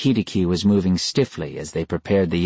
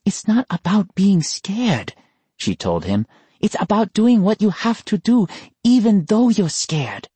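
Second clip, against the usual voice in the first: firm sister; 13 semitones higher than usual. Acted. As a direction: lecture him on courage. Sister lectures brother.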